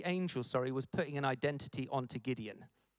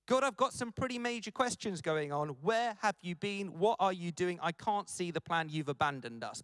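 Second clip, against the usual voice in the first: peed off questioning. Acted. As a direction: demand answers, lightly hammed. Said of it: "he's peed off".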